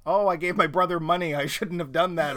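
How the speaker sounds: mock woeful lament; hammed-up self-pity; dramatic sigh. Mocking guilt-ridden character.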